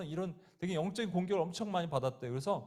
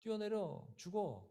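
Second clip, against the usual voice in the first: lightly voiced demon, softly coaxing; understated, soft demonic urging; 5 dB quieter than usual. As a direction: tempt quietly, like a voice in someone's head. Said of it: "귀신의 소리가 들렸대요".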